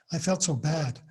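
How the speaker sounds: a light American accent on a soap opera line. Shown as a demonstration. Lecturer demoing an American accent for students, light American accent. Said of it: "this is my American accent".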